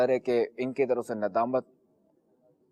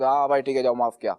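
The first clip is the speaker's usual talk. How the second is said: grudging dismissal; 4 dB louder, faster than usual. Retold or imitated. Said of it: "جلال دیکھ لیا سب کچھ".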